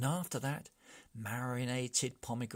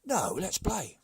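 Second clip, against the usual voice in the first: loud bossy call; commanding chief; 8 semitones higher, 7 dB louder than usual. Acted. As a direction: take charge loudly. Chief takes charge.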